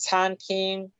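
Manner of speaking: "Tan King" with both syllables level; lectura modelo. Shown as a demonstration. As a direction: model "Tan King" evenly in Chinese first tone. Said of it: "¿Cómo leemos esta palabra?". ("Tan King" con las dos sílabas planas)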